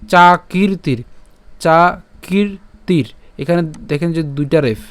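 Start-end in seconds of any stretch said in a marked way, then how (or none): 0.1-3.1 syllable-by-syllable চাকীর্তির; long i demonstration. Shown as a demonstration. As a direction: hold the ī in চাকীর্তির. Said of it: "ক দীর্ঘিকারের সাথে উচ্চারণ হবে".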